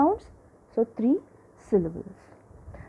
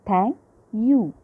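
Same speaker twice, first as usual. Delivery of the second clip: "Thank you" split into two separate beats; teacher breaking "Thank you" into its syllables. Shown as a demonstration. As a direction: say "Thank", pause, then "you". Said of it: "two vowel sounds".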